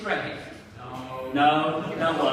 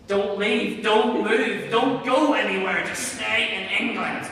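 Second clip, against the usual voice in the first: mock anxious plea; 6 dB louder than usual.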